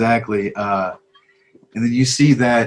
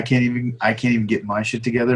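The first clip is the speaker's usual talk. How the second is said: usual speaking voice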